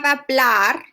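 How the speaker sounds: "hablar" with a long, stressed BLAR; teacher demonstrating "hablar" with final-syllable stress; stress on last syllable. Shown as a demonstration. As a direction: lean on the end of "hablar", drawing out BLAR. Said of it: "have the stress in the last syllable".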